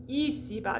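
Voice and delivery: ici-bas with pure "ee" in both syllables; closed E vowels. Shown as a demonstration. Teacher modelling French I, closed vowels. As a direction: say "ici" as "ee-see". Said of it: "It's not ici or issa".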